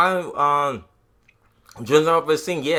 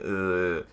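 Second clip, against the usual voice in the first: weary, disgusted "ugh"; disgusted groan; 3 semitones lower, 3 dB quieter than usual. Retold or imitated. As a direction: groan it out in distaste. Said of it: "I'm like".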